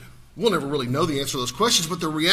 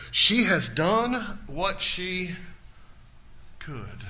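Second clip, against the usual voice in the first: tender reading; much slower than usual. Real, not acted. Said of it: "Look at verse eight".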